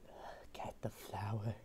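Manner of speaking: hushed documentary whisper. Pretend. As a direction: whisper as if not to scare it.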